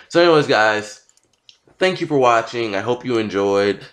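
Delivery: talking around a dental retainer; wearing a retainer. Real, not acted. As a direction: speak with a retainer in. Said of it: "I have my retainer in".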